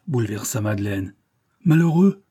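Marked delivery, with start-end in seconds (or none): 1.6-2.2 sharp rise in pitch and volume; crying out. A narrator's reading. Madeleine reacting to talk of dying, crying out. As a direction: cry it out in alarm. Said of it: "s'écria-t-elle".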